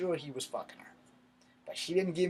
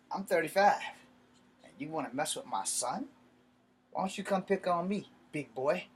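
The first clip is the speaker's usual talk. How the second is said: forceful, measured confrontation with punched phrases; retold challenge; 3 semitones higher than usual. Dad confronts his son's older bully, retold challenge. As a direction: square up to him, pausing between jabs.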